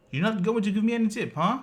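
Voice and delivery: high, loud affronted question; indignant demand. Retold or imitated. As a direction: mimic the delivery man's outrage. Delivery man pressing for tip.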